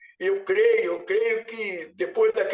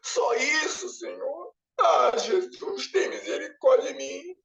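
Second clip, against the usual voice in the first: high, sobbing despair rising to cries; crying lament; 3 semitones higher than usual. Retold or imitated. Holding a tiny crystal, weeping to the Lord. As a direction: wail out the regret. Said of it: "Eu falei".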